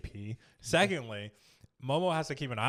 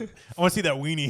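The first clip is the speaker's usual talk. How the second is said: louder, eager nosy granny voice; mock nosy granny; 3 semitones higher, 7 dB louder than usual. Grandma wanting to watch, eager and loud. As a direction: leer like a curious old lady. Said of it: "he was like".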